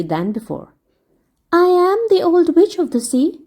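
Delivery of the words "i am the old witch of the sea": higher, amused fairy voice; teasing fairy lady. Acted. Fairy confessing to Dick, playful and merry. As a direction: reveal the secret with a laugh in it.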